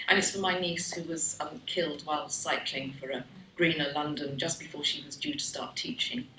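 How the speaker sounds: ordinary delivery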